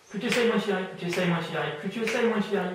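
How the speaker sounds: insistent suggestion. Real, not acted. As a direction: hammer the suggestion home over their attempts. Hypnotist hammers a blocking suggestion. (suggestion martelée avec insistance)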